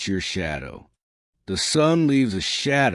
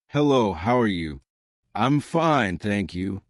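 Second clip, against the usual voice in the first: demonstrating an English accent. Shown as a demonstration. Teacher showing learners the English accent to keep, English accent. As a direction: say it with a carefully kept English accent. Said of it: "but keep that accent".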